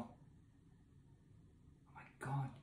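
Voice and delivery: barely voiced, slow breathy whisper; stunned whisper. Real, not acted. Alone after finishing the book, a stunned whisper. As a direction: let it slip out under your breath.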